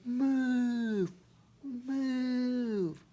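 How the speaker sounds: high yelled move; shouted warning. Retold or imitated. Boy shouting at the hiker to move, high yell. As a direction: yell it to get him out of the way. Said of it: "I just shouted to this guy".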